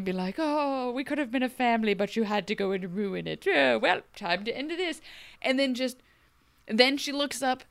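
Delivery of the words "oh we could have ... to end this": villain monologue. Retold or imitated. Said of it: "monologuing like a villain".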